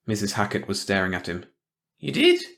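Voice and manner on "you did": high, nosy busybody voice, louder; a prying small-town gossip sniffing out trouble; suspicious old gossip. A narrator's reading. Hackett suspicious.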